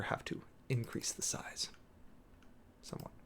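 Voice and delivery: a private whispered aside, half to yourself; whispered to self. Real, not acted. To himself while adjusting the screen text size, a quiet whisper. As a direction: whisper it under your breath while fiddling with the screen.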